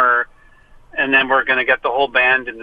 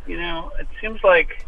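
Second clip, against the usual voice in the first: clipped phone line; 2 semitones higher than usual. Real, not acted. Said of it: "You do sound like you're, you're calling from a car".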